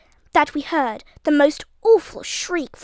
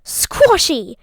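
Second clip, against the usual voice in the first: loud laughing howl; 4 semitones higher, 6 dB louder than usual. A narrator's reading. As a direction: roar it out through laughter. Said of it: "he howled".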